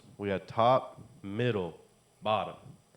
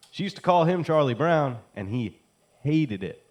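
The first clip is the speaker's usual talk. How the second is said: building to a shout; 7 semitones higher, 9 dB louder than usual. Acted. Repeating the phrase louder.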